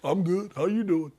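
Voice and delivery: soft mock Chicago-accent reply. Host replaying his own reply, quiet Chicago accent. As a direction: answer quietly in a lightly put-on Chicago accent. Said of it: "there was a Chicago accent".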